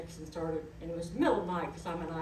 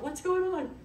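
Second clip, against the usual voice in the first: higher and louder, retold surprise; surprised; 12 semitones higher, 5 dB louder than usual. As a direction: ask it startled and puzzled. Retells her surprise at dinner.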